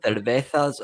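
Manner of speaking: put-on playful Spanish accent on cervezas. Host jokes about Moyes ordering beer, Spanish accent. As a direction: say cervezas like a tourist showing off Spanish. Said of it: "That, that was a cracking accent".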